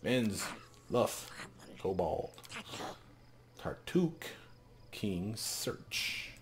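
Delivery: hint of a halting kobold elder; broken-speech kobold. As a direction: bark the words one by one. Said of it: "he continues to stare".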